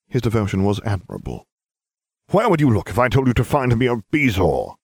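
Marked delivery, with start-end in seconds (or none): 2.3-4.7 sharp stern teacher snap; snapping. Acted. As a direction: snap it at the pupil. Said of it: "he snapped".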